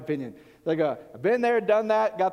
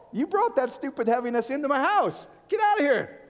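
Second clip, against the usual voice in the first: loud and higher, throwing a visitor out; mock angry shout; 7 semitones higher, 4 dB louder than usual. Preacher ordering a gloomy visitor out of his house, loud and angry. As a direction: bark them out the door, higher and louder. Tells intruder to leave.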